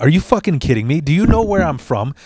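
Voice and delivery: getting worked up, pitch rising; real rising indignation while retelling; fired up. Real, not acted. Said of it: "you see how fired up I'm getting".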